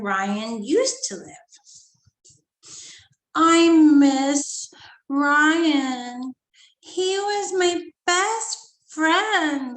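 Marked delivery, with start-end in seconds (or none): 3.3-9.7 slow, drawn-out sad words, louder. Acted. Girl telling mom she misses her friend, sadly. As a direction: ache over a lost friend. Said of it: "Lucy said sadly".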